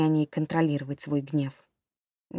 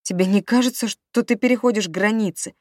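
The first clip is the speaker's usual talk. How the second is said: higher, louder indignation; wife confronts husband, high and outraged; indignant protest; 4 semitones higher, 6 dB louder than usual. A narrator's reading. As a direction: push back, outraged.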